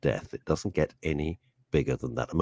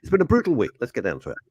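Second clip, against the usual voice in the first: higher, louder dramatic announcer read; 6 semitones higher, 4 dB louder, much faster than usual. Shown as a demonstration. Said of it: "Okay, here's one".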